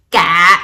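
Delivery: CA pitched low; Vietnamese low tone. Shown as a demonstration. Teacher shows Vietnamese tones, low CA. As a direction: drop your pitch for "Ca". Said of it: "seven tones in our language".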